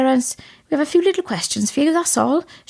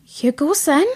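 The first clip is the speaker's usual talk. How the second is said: switching to bad cop; 3 semitones higher, slower than usual. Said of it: "Would you prefer we tried something else?".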